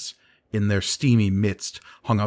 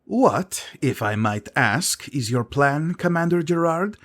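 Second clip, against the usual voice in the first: sharp retort; 6 semitones higher than usual. A narrator's reading. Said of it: "Sisay shot over one shoulder".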